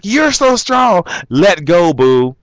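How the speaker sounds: high, slow sweet plea; mock sweet plea. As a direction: coo at him to let go. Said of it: "the guy's like".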